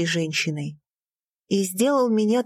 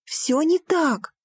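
higher, slow, stress on не; insistent cry; 8 semitones higher, slower than usual. Acted. Daughter to father, a pleading cry. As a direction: hammer it home. Shouting on.

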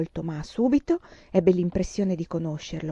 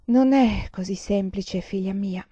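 slow, gentle mother's reply; patient mother; slower than usual. Acted. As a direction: ease her child's question slowly. Mother gently answers her child. (madre paziente, lenta e dolce)

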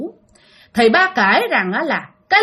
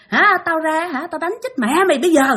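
raised, quick mock threat; retold angry cursing; 4 semitones higher than usual. Dad cursing the voice pestering him, quick retold scolding. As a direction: rattle off a threat at higher pitch. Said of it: "Đó là ba chửi như vậy".

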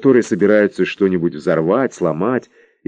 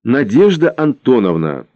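very stern; 4 semitones higher than usual. Acted. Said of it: "совсем уж сурово сказала".

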